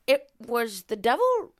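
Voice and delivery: theatrical echo. Acted. Host echoes the line theatrically.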